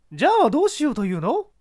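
high, spirited actress voice; proud woman facing her ex; strong-willed mezzo-soprano. Acted. Actress confronting her ex-husband, strong-willed and high.

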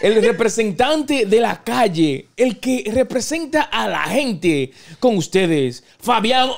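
slow, drawn-out guest introduction; lucha libre announcer. Acted. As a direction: stretch the name like a ring announcer.

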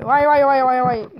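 sudden loud startled vay; startled loud cry. Real, not acted. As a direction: yelp in surprise. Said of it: "Sesim niye öyle çıkarttım ben?".

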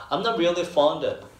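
very slow, every sound of I'm not really fond of drawn out; slow linking demo. Shown as a demonstration. Teacher slowly models the linked phrase for students. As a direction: stretch it out so fond of links. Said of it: "of 같은 거 정말 안 들려요".

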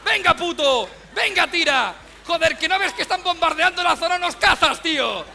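bully the pet forward; harsh urging. Retold or imitated. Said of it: "lo anima pegándole patadas sádicas".

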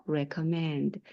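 "recommend" with the weight on -MEND; stress on final syllable. Shown as a demonstration. Teacher showing learners where the accent falls, stressed "recommend". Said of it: "뒤쪽에 강세가 있고요".

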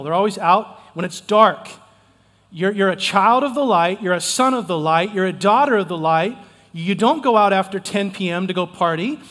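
firm, loud sermon delivery; preaching hard. Real, not acted. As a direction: press the point on the crowd. Preaching point with rising force.

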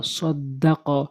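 very slow সদ্দাক with the দ held double; tashdid doubled. Shown as a demonstration. Teacher showing tashdid to Quran learners, slow doubled সদ্দাক. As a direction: draw out সদ্দাক, leaning on the doubled দ. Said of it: "তাকে দুইবার উচ্চারণ করতে হবে".

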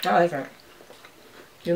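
talking between bites; chewing while talking. Real, not acted. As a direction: mouth partly full of chocolate. Seen 2: Middle speaker bit chocolate at -4, holds piece while talking.

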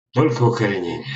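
firm, loud insistence; emphatic. Real, not acted. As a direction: lay it down as the rule. Insisting after condemning seed growing.

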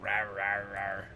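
mock monster growl; playful short zombie growls; playful rawr. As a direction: imitate a little roar, repeated.

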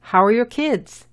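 put-on "kids" with a short, lax i and English k. Shown as a demonstration. Teacher models a question for learners, short i in "kids". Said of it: "Y la I en kids es corta".

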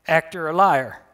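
put-on just a touch of German accent; light German accent. A narrator's reading. German wife answering Charlie at the radio station, lightly accented. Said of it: "That an accent I hear?".

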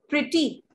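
"प्रिटी" in two beats, प्रि-टी; syllable by syllable. Shown as a demonstration. Teacher shows another two-syllable adjective, split apart. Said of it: "two syllable है".

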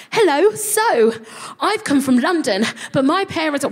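overeager intro to unimpressed women; nervous high greeting. Retold or imitated. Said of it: "And I was like".

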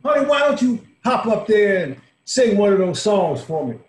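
loud, high call across the room; loud coaxing call to the singer. Acted. Calling across the bar to her.

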